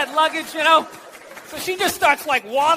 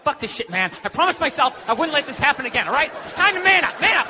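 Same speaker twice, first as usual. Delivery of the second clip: mock pep talk, building to a shout; a dog psyching itself up; dog's inner voice; faster than usual. The abused dog psyching itself up to attack, building shout.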